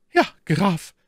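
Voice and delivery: very high, sweet lady's voice; gentlest voice. A narrator's reading. Milady welcoming the count by the hand, in her gentlest voice. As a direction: coo tenderly in a high feminine voice. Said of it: "versetzte Milady mit ihrer sanftesten Stimme".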